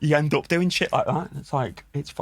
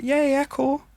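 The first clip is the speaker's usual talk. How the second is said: high eager yeah yeah cool; delighted high-pitched agreement; excited reply; 13 semitones higher, slower than usual. Retold or imitated. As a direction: jump at the offer, pitch way up. His own eager reply, high.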